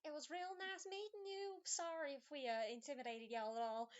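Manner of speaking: high, sugary cheery goodbye over gritted teeth; cheery farewell. Acted. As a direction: fake-friendly wave to the girl, pitched high. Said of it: "gives a cheery little wave".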